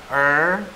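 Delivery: "er" with the R left untrilled. Shown as a demonstration. Teacher showing Mandarin R, untrilled "er". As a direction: draw out "er" without rolling the R. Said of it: "hanya saja tidak digetar".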